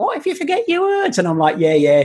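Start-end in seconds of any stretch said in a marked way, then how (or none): 0.0-1.2 tiny, silly, stupid-sounding squeaky voice, very high. Voicing the little doubting voice on their shoulder, stupid little voice. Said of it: "I give it a stupid voice".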